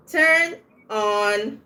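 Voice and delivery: weight on turn, drop on; stress on turn. Shown as a demonstration. Teacher showing how betrayal sense sounds, stressed turn. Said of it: "So it sounds".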